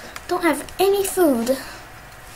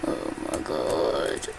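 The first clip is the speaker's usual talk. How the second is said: whispered; 8 dB quieter, much slower than usual. Real, not acted. Shocked at finding something.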